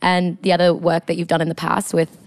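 half-committed British interviewer; formal job interviewer with a light British accent. Pretend. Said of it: "your British accent, like, is good".

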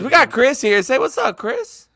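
high, loud hype-man call-out; hyped intro. Real, not acted. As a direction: pump up the crowd for Chris. Host calls on the guest.

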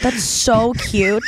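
slow, drawn-out and cooing. Real, not acted. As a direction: melt over something adorable. Cooing over the kid.

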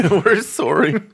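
slow, drawn-out Canadian sorry; over-apologize like a Canadian; mock Canadian.

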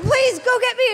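very high plea through a laugh; beg, cracking up. Retold or imitated. Begging again, desperate.

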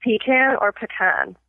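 slowly "Pecan" as PEE-can, then puh-KAHN; two pronunciations. Shown as a demonstration. Host quizzing a guest, "Pecan" said both ways. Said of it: "I have a pronunciation test".

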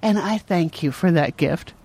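slow, solemn hint of a grandmother; grandma-like. Mother mimicking her son's thanks, slow and grandma-like. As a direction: lightly imitate a grandma giving formal thanks. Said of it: "Like my grandma's all of a sudden talking".

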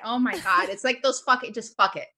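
usual speaking voice

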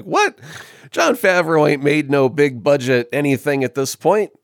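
incredulous high "What?"; surprised disbelief. Retold or imitated. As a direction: scoff in disbelief. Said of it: "you're like".

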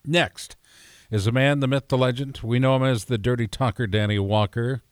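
big radio intro read; radio announcer voice. Acted. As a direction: announce him like a radio host. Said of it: "you sound like a radio guy right now".

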